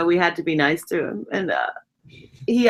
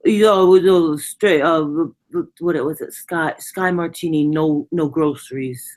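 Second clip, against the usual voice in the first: Brooklyn tough guy; 3 dB louder, slower than usual. Retold or imitated. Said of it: "he talked like he was from Brooklyn".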